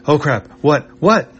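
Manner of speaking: flustered robot caught off guard; startled panic. Acted. Robot jolted by Chippu's yell, panicked squeak.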